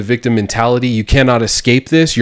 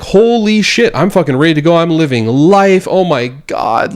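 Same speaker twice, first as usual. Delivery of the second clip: ready to take on the world; elated; 6 semitones higher than usual. Retold or imitated. Reliving his recovery for viewers, high elated exclaim. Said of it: "I was like".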